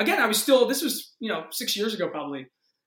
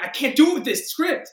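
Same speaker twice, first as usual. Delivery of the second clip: retold panic; 8 semitones higher, 7 dB louder than usual. Acting out own freak-out at audition.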